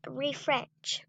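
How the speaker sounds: soft whispered word. Real, not acted. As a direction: breathe it in a whisper. Whispers the word during game.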